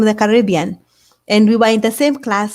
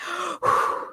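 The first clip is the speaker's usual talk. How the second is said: out of breath; 8 semitones higher, 8 dB quieter than usual. Retold or imitated. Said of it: "And so I walk in huffing".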